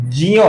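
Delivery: ज्ञ said as "jya", j into y; correct Sanskrit conjunct. Shown as a demonstration. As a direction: say ज्ञ with a half j and y. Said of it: "सही संस्कृत उच्चारण है".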